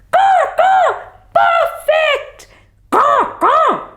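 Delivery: high cawing crow voice; delighted crow. Acted. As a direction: caw with delight at the tree. Crows delighted at the tree.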